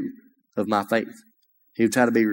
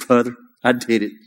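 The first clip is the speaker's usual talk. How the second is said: a touch of tearful joy, raised voice; retold tearful cry; 2 semitones higher, 4 dB louder, slower than usual. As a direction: echo his sobbing relief, half-performed. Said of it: "just weeping and, and, and sobbing in tears".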